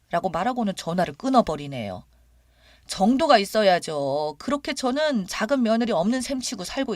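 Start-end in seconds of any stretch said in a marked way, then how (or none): none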